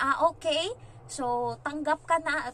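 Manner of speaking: loud, high, bright-voiced announcement of good news; upbeat acceptance. Agency interviewer telling the applicant she's hired, loud and high. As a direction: deliver it like happy news to the applicant.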